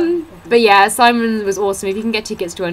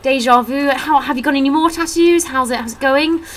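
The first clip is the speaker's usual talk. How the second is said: higher, light sheepish comedian voice; 7 semitones higher than usual. Retold or imitated. Comedian realising he already said it, lightly sheepish. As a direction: play him caught repeating himself. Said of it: "And he was like".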